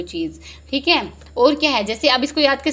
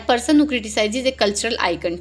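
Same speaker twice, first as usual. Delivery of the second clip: slow reading; much slower than usual. Shown as a demonstration. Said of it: "reading options slowly".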